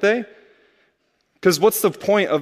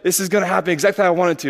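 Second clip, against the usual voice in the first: smug planner; 3 semitones higher, much faster than usual. Retold or imitated.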